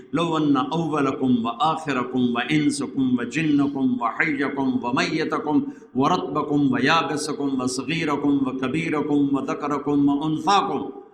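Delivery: measured preacher's recitation of scripture; Arabic sacred recitation. Real, not acted. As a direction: recite the Arabic in an even, rolling cadence. Recites Arabic scripture within sermon.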